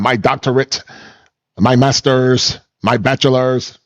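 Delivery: slow list, "doctorate", "master's", "bachelor's" each hit like a drumbeat; mock emphasis. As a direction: parade each degree, stressing "master's" and "bachelor's". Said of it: "like they're in the drum line".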